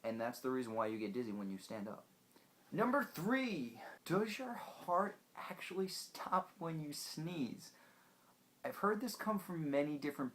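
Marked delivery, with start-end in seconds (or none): 2.7-7.7 dramatic whisper. Acted. Dramatic reveal of next myth.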